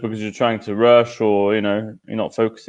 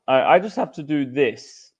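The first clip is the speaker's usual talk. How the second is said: talking through a mouthful; words round a bite of food; crunching chips; 6 semitones higher than usual. Real, not acted. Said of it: "You're eating".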